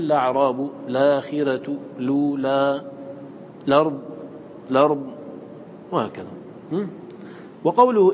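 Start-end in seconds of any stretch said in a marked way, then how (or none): 0.0-5.1 each begun straight on lam: "الأعراب" as "la'raab", "الأرض" as "lard"; without initial hamza. Shown as a demonstration. Teacher demonstrating the reader's way, "الأعراب", "الآخرة", "الأرض" begun on lam. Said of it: "من دون همزة، فيقول".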